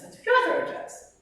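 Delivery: playful high whisper; high breathy mock. Shown as a demonstration. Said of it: "That's what my throat does".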